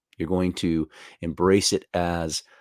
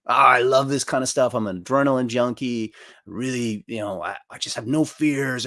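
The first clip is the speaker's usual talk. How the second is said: mock bragging; 4 semitones higher than usual. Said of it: "talking very boldly, bragging".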